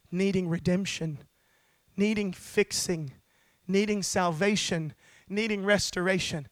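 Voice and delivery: low, measured sermon voice; hushed-down, earnest pulpit delivery; solemn preaching. Real, not acted. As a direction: bring it down low for a sober scripture reading. Sermon drops to grave low delivery.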